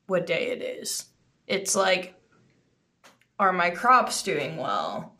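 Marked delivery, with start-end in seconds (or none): 3.4-5.1 laughing. Real, not acted. Laughing while asking.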